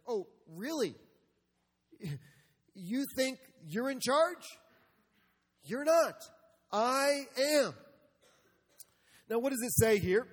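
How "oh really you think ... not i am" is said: scornful taunt rising loud and high; God laughing at the rebel, then booming; mocking God. God mocking rebels, voiced loud and high by the preacher. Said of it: "He's laughing".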